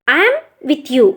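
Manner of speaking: I am with you. repeated slowly, word by word; slow teaching repeat. Shown as a demonstration. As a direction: say it again slowly for students to copy. (నెమ్మదిగా మళ్ళీ చెప్పడం)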